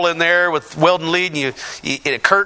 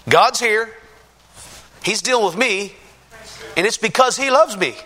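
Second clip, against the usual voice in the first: overwhelmed joy; 7 semitones higher than usual. Real, not acted. Testimony climax, overwhelmed by God.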